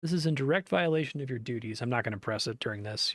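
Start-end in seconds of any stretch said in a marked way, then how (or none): 0.0-1.8 mild raised scolding; doctor reprimanding caregiver; understated angry rebuke; angry shouting. Acted. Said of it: "the doctor shouts at him".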